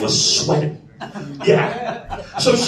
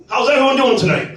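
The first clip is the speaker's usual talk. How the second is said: calling out; 6 semitones higher than usual. Real, not acted. Comic greeting the crowd.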